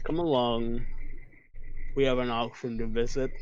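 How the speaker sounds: menacing. Acted. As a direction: make it sound sinister. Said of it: "Why do you sound so menacing?".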